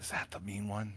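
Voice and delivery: hushed whisper. Voicing a wolf speaking to Skyward: whispering. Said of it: "He whispers to you".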